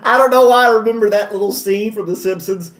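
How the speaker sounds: amused, laughing explanation; cracked up. Real, not acted. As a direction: talk while still laughing. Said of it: "it just cracks me up every time".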